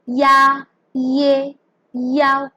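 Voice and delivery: YA, YE, YAO each opened with a y glide; teacher modelling "ya, ye, yao"; y-sound demo. Shown as a demonstration. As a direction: say ya, ye, yao separately on a level note. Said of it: "they'll be pronounced with the sound ya".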